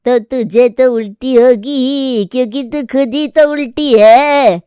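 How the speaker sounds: put-on a cranky old mother scolding her son; scolding old grandmother. Grandmother scolding her forgetful son, lightly voiced.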